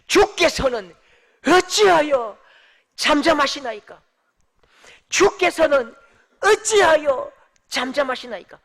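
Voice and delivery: loud, punched phrases with pauses; short, broken-up reading. Shown as a demonstration. Preacher cuts the verse down to its point, forceful reading. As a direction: fire out each phrase as a protest. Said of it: "하고 싶은 말을 짧게 끊어보면요".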